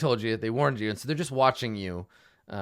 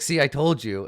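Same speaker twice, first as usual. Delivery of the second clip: a touch louder gnoll, told-you-so; smug gnoll; 3 semitones higher, 5 dB louder than usual. Acted. Gnoll gloats to his partner, mildly louder and smug. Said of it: "And the other one's like".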